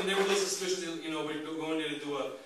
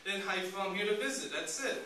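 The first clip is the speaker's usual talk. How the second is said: squeaky-high protest of innocence; exaggerated high-voiced pleading; high-pitched mock pleading; 7 semitones higher than usual. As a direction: act out a flustered self-defence, very high. Retold plea to angry interrogator.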